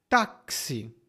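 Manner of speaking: "táxi" as a teaching word, with a clear ks; ks sound. Shown as a demonstration. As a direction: model "táxi" as TÁK-si. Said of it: "é o som de X".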